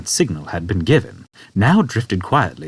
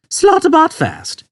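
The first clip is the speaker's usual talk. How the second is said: quietly repeated; 5 dB louder, slower than usual. A narrator's reading. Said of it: "repeated the old man quietly".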